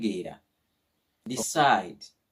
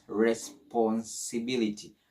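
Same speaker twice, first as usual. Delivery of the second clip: slow "Responsibility", split as res-pon-si-bility; broken into syllables. Shown as a demonstration. Teacher shows how to read a long word, "Responsibility" slowly in chunks. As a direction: break "Responsibility" down piece by piece. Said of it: "break it down into simple, pronounceable word".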